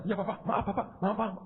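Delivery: very soft, meek imitated apology; hushed, repetitive deference; apologetic clerk. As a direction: mimic a cowed clerk begging pardon.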